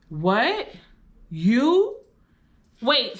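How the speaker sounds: a son who can't take in what mom did; shocked disbelief. Retold or imitated. Son hears mom hit a boy, stunned rising disbelief. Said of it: "Dante eyes open up like".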